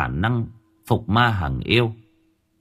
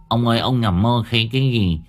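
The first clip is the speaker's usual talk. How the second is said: worried wife. Acted. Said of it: "vợ đang ngồi bên cạnh lo lắng".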